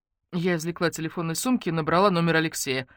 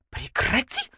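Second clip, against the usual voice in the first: higher, sharp bark; barked stop; 8 semitones higher, slower than usual. Acted. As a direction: bark it at him. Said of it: "рявкнула я". (резкий окрик)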